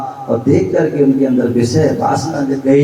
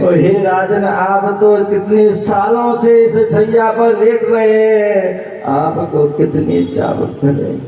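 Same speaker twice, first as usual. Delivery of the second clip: calm servant's reply; 6 semitones higher than usual. Acted. Servant answers the king.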